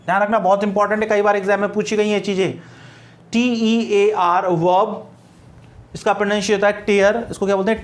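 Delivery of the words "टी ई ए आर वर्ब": slow spelling. Shown as a demonstration. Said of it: "spelling out letters slowly".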